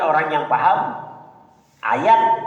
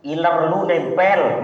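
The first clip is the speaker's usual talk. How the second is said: slow teasing habib; slower than usual. Retold or imitated. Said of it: "Kenapa, Habib?".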